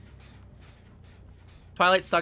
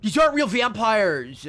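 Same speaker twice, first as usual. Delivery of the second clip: lightly put-on complaining fan voice; mock protest in a borrowed voice; a hint of indignant vampire fan, a bit louder; Shabari impression; 4 semitones higher, 4 dB louder than usual. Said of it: "that's just the voice Shabari does".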